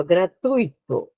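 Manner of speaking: gratuito with stressed u and weak i; teacher shows the diphthong in gratuito; strong u diphthong. Shown as a demonstration. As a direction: say gratuito, tui as one syllable, u strong. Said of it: "o U é mais forte".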